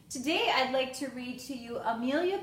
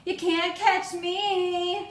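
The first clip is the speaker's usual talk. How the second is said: higher, louder, slow teasing call; playful yell; 7 semitones higher, 8 dB louder, much slower than usual. Acted. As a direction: tease like a kid in a chase. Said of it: "she yelled".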